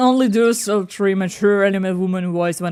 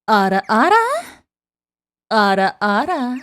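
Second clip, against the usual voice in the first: mature anime woman; 4 dB louder than usual. Acted. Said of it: "that elegant to be ara, ara".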